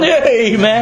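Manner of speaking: mock rapper's greeting; lightly put-on cool "hey, man"; imitating rappers. Preacher mimicking rappers in the masjid, mock-cool. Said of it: "Og så gør det sådan".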